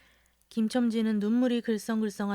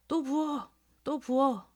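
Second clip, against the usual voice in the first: shouted; 5 semitones higher, slower than usual. A narrator's reading. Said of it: "하고 외쳤다".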